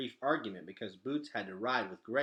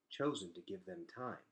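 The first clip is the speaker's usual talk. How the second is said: simple and calm; 3 semitones lower, 5 dB quieter than usual. A narrator's reading. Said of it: "said Vicus simply".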